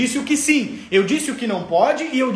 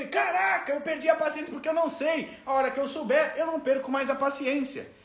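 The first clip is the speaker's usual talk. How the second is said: quiet realization; 3 semitones higher, 8 dB quieter than usual. Retold or imitated. Realizing aloud, inner voice.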